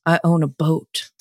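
sultry perfume ad. Retold or imitated. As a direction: murmur it like a cologne commercial. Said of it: "felt like a perfume commercial".

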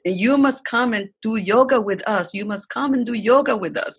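a loose attempt at her Asian accent. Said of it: "in her accent, which I could not replicate".

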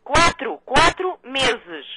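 slow, deliberate syllables; over enunciating. Real, not acted. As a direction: stretch every syllable out. Repete para quem não ouve. (articulando cada sílaba devagar)

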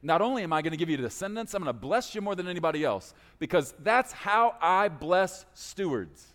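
a pleased God answering Abram's selfless request; delighted God. Acted. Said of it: "God goes".

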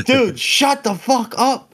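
high, loud, drawn-out mock yell; imitated yelling. Friends trying to silence him before arrest, mock yell. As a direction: re-enact a panicked group yelling at him. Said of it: "we all were yelling at him".

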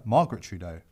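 ordinary talk, nothing marked

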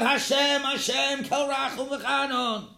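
acted prayerful call. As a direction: call out as Moshe pleading to Hashem. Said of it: "and Moshe called out".

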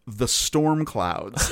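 very slow, stretched-out words; drawn-out reveal. Real, not acted. Podcast host reveals the forgotten character to co-host, drawn out. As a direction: draw it out for the big reveal.

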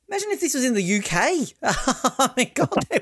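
posh indignant Brit spluttering over Bond; mock British outrage. Mock outraged Brit imagining UK reaction.

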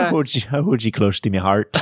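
tentative mock Irish brogue; lightly put-on Irish lilt. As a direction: feel your way into an Irish accent. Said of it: "Just trying to get into this".

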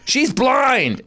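high, stretched mock cry; someone calling out. Someone explaining the panic to comic, high mock cry. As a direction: cry it out over the melee. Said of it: "then someone goes".

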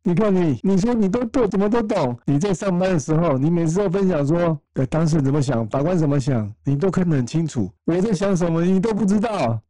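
high, tearful imitation of his wife; husband retelling his wife's tearful outburst, in a high crying voice; imitating crying wife. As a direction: replay her sobbing complaint, pitched well up. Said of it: "没想到突然她大哭".

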